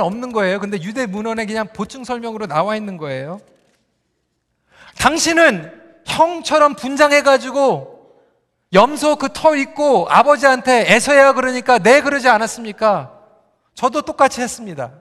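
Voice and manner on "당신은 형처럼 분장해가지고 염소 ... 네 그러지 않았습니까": forceful, deliberate mock retort; acted confrontation. Leah throws Jacob's own deceit back at him, acted confrontation. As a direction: imitate a wife calling out her husband. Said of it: "레아가 따지는 거예요".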